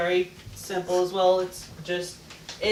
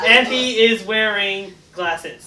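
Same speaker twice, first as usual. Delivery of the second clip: laughing; 7 dB louder, slower than usual. Real, not acted. Laughing while fixing the haiku.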